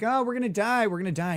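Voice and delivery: high-pitched whine, easing down; mock whining. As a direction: imitate panicky whiners, half-hearted. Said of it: "all the apostles are fucking whining".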